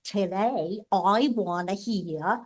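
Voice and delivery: lightly put-on Brooklyn voice; Brooklyn accent. Teasing big sister in a jukebox game, mock Brooklyn accent. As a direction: play up a Brooklyn accent a little. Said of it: "in my best, like, Brooklyn voice".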